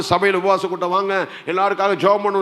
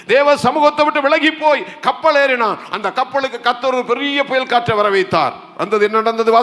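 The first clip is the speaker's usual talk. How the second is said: raised, forceful sermon voice; impassioned preaching; 5 semitones higher than usual. Real, not acted. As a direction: press the congregation with urgent appeals. (ஆவேசமான பிரசங்கக் குரல்)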